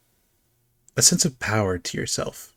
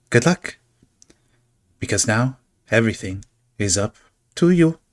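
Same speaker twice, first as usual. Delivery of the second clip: playful farewell. Acted. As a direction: wish luck with a teasing lilt. Figure parts with a flourish.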